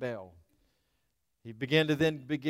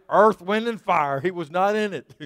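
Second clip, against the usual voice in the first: loud punchline; 3 semitones higher, 6 dB louder than usual. Acted. Punchline after seventies joke.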